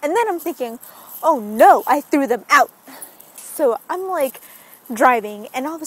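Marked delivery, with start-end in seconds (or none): 1.2-2.7 mock loud dismay; louder, acted-out "oh no" moment; dismayed realization. Vlogger realizing she binned her retainers, acted dismay.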